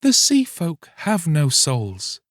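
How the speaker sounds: very high, sorrowful mermaid voice; mermaid's sorrow. Acted. Mermaid answers the fisherman, high and sorrowful. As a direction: sigh it out, high and sad.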